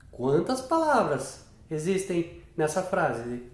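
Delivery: "Quantas palavras existem nessa frase?" asked slowly, word by word; slow question. Shown as a demonstration. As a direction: ask it slowly to the child. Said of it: "E aí você pode falar". (pergunta lenta, palavra por palavra)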